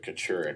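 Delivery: Kachurik said as kuh-CHUR-ik; pronunciation as heard. Shown as a demonstration. Co-host offers the name as heard, Kachurik stressed on CHUR. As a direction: stress the middle of Kachurik, short first syllable. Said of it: "I've heard it".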